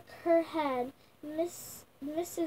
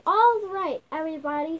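loud, raised call to a group; 8 dB louder, faster than usual. A narrator's reading. Character calling children to start game.

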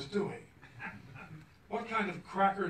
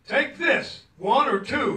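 high, loud, quick offer; shopkeeper yelling; 7 semitones higher, 7 dB louder than usual. Retold or imitated. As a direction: bark it across the counter. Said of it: "he yelled".

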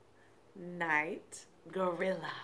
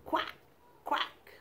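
duck quack; 4 semitones higher, 6 dB quieter than usual. Shown as a demonstration. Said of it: "the ducks all go like this".

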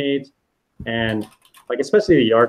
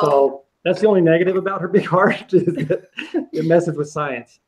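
laughing; 2 semitones higher than usual. Real, not acted. Joking about Carol's big heart.

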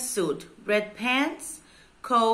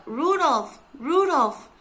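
high, falling name call; 5 semitones higher than usual. A narrator's reading. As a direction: call out for someone, twice. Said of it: "Santa called out".

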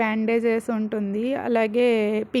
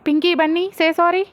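sharp, raised order; a bit loud; 6 semitones higher, 5 dB louder than usual. A narrator's reading. Father ordering Pinky and Bunny to apologise, loudly. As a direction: call the kids to order firmly. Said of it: "కొంచెం గట్టిగా చెప్తాడు".

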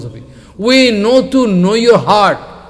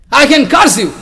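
laying a curse; 6 semitones higher, 5 dB louder than usual. Retold or imitated. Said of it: "some Brahmin become very angry".

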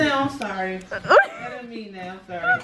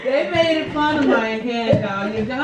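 laughing; slower than usual. Real, not acted. Laughing complaint about nails.

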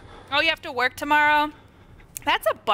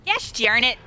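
exaggerated frustration; 2 semitones lower than usual. Real, not acted. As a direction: say it up and out, playfully annoyed. Repeats the mild curse more forcefully.

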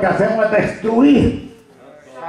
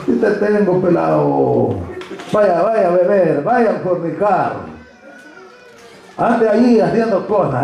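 lightly voiced devil giving orders; a hint of a taunting devil; devil leading someone; 3 semitones lower than usual. Devil dragging a brother by the ear, lightly acted tempter. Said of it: "el diablo lo anda así de la oreja".

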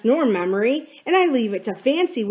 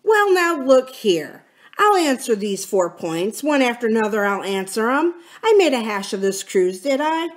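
heated pirate tirade with sudden high bursts; vehement; 3 semitones higher, 4 dB louder than usual. Acted. Silver answers the mutineers' charges, vehement. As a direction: throw the blame back with force. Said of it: "talking with a vehemence that shook the house".

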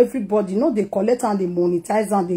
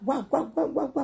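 mock yapping; 3 semitones higher, 9 dB quieter than usual. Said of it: "you just dey shout".

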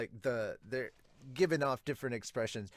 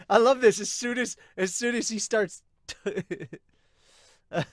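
high and loud, laughing through the words; real giddy laughing delight; delighted laughter; 9 semitones higher, 10 dB louder than usual. Real, not acted. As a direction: gush with joy.

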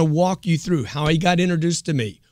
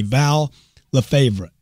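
careful name; much slower than usual. Real, not acted. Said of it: "how do you say it?".

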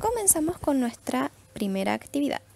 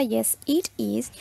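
slow model answer; much slower than usual. Shown as a demonstration. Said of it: "una afirmativa".

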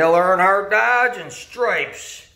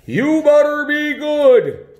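lightly voiced Santa; 4 semitones higher than usual. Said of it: "Santa Claus says".

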